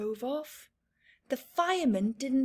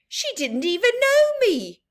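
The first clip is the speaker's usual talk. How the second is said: put-on wounded child; 10 semitones higher, 7 dB louder than usual. Michael indignant.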